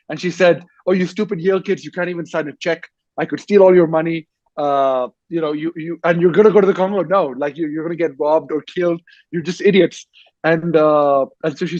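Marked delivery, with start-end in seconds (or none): 0.9-10.1 imitating a scornful cashier, pitched up; mock scolding cashier. Cashier scolds naive Yale student.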